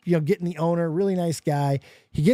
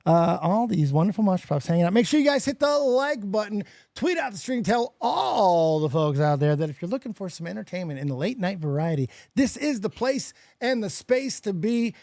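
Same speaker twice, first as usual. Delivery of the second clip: stream host shout-out. Acted.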